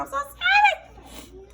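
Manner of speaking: high, laughing while the onion tears run; laughing through tears. Real, not acted. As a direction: laugh it out with watering eyes. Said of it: "My eyes is watering".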